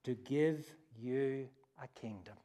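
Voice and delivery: gentle, reassuring shepherd's voice; calm frightened children; reassuring parent. Retold or imitated. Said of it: "the voice of a parent reassuring frightened children".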